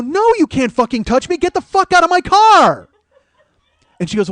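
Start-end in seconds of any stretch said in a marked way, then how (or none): 0.0-2.9 loud, high shouted order to get out; yelled order. Retold or imitated. Yelling at the woman in his car to get out, high and loud. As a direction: bellow at her to get out. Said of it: "And I go".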